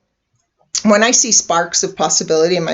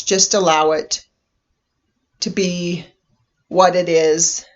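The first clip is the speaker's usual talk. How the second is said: unhurried meditation guide with long pauses; guided meditation. Acted. Inviting listeners to relax and imagine a vehicle, guided meditation voice. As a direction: gently lead listeners inward, leaving space between phrases.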